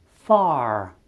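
far with no R and a long vowel, "faah"; British far. Shown as a demonstration. Teacher showing British far, R dropped, long vowel. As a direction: drop the R in far and stretch the vowel. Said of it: "R este foarte slab pronunțat".

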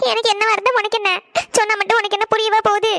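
tearful, resentful retort; crying. Acted. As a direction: snap back between sobs. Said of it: "எதுக்கிட்டே அழுதுட்டே இருக்க". (அழுகையோடு கோபமாக)

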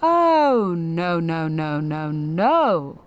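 dismissive, sing-song no no no; mock refusal. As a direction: scold like a prim gatekeeper. Mocking the system's refusal.

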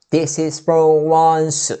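"This is for once." slow, linked as tesi s po wansu; slow linked demo. Shown as a demonstration. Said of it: "이렇게 갈 거예요".

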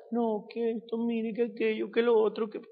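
mock childish whining complaint; mimicking a whiny child. Preacher mocks a complaining worker, lightly whiny like a child. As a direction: whine like a child listing troubles. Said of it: "como un niño".

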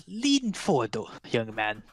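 lightly voiced frail crone; old crone. Crone beckoning Watt closer. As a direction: beckon him closer, coaxing. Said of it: "She says".

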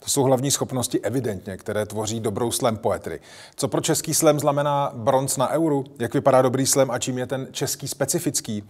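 lively presenter reading an intro; scripted show introduction. Acted. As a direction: introduce the guest to viewers, crisply scripted. Host reads scripted guest introduction. (moderátorský úvod pořadu)

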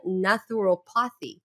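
"naturopathy" sounded out as NATH-oo-ro-PAH-thee; unsure pronunciation. Real, not acted. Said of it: "I don't know if I'm pronouncing it well".

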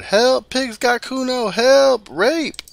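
screaming high and loud for help; shouting for help. Acted. Child screaming to the windows about the cop, full shout. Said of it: "as the child shouts".

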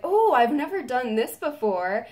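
mildly excited imitation, high on the "Oh"; lightly imitated eager reaction; retold excitement. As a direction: react with a touch of delighted surprise. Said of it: "got really excited about that pose".

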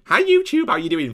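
mocking, condescending YouTuber greeting; patronising hello in a mock high pitch; talking down. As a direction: mimic her greeting with a high, loud start. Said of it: "I feel like she's talking down to me".

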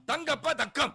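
தங்கப்ப தக்கம் slow, split after ப; wrong word break. Acted. Man insists on his poster reading, slowly and wrongly split. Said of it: "அப்படி படிக்க கூடாது".

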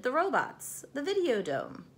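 put-on eager kids yelling out; shouted answers. A narrator's reading.

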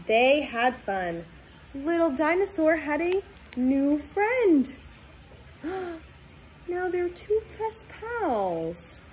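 put-on storybook read-aloud for kids; reading to children. Teacher reading a picture book to her class, storytime voice.

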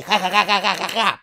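real laughter through the read-out ja ja; laughing. Acted. Host reading a fan comment, laughing. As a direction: let the laugh take over the ja ja.

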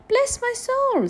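high-pitched astonished exclamation; slow, loud, high surprise. A narrator's reading. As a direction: exclaim in amazement, voice leaping up. Bob finds ragged boy at door.

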